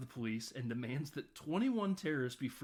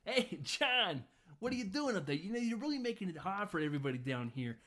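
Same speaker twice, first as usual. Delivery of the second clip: Ellis's dumb voice; 6 semitones higher than usual. Retold or imitated. Ellis calling John over the radio, high goofy airhead voice. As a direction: play the clueless schmoozer, pitched way up. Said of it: "Ellis's dumb voice".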